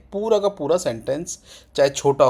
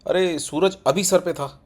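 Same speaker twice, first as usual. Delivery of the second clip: casual spoken tone; 3 semitones higher, slower than usual. Shown as a demonstration. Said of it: "tone क्या रहेगी".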